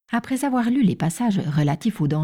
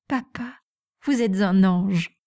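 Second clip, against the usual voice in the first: mild excited cry; slower than usual. Acted. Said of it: "s'écria-t-elle".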